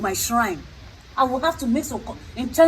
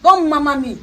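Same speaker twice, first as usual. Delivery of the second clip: stern rebuke; 4 dB louder than usual. Acted. Rebuking the young man.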